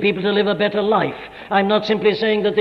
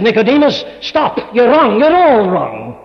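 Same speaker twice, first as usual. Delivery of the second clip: higher and louder, cutting him off; stern rebuke; 4 semitones higher, 5 dB louder than usual. Acted. Lord halting Nicodemus mid-question, firm and loud.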